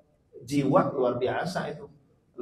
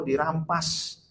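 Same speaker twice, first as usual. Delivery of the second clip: higher, louder, stretched words; rising dramatic list; 7 semitones higher, 4 dB louder, much slower than usual. Acted. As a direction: build up the child's grief. Dramatic child suffering. (berlebihan dramatis, suara tinggi)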